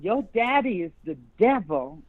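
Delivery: put-on quoting her in a Southern accent. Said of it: "my Southern accent came out there".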